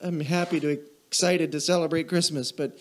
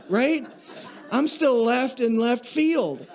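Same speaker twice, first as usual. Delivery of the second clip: laughing; 8 semitones higher, slower than usual. Real, not acted. Laughs during mock rant.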